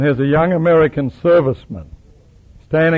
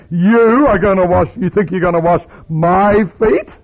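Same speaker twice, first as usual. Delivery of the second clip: mock disbelief; 5 semitones higher, 5 dB louder than usual. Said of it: "It's not enough to say".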